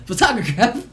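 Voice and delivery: "Photograph!" shouted high as fa-TOG-o-graph; excited mispronunciation. Shown as a demonstration. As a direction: triumphantly yell "Photograph!" the wrong way.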